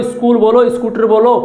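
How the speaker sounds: "स्कूल" and "स्कूटर" with a short i before the S; added initial i. Shown as a demonstration. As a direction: say "स्कूल, स्कूटर" as is-kool, is-koo-tar. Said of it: "आदेश है कि इस बोलो".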